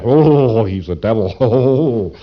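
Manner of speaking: a lightly acted shocked cry, slow on devil; mock accusing townsfolk. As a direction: point and accuse, drawn out. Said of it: "And they say".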